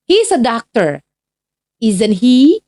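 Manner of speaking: rising question tag at the end; example read aloud. Shown as a demonstration. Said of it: "Contohnya seperti ini".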